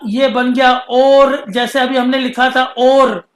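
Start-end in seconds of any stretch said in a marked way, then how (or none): 0.1-1.4 और drawn out as aur; slow emphatic और; slow reading. Shown as a demonstration. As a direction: hold और long and clear. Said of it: "वाव के साथ लगा".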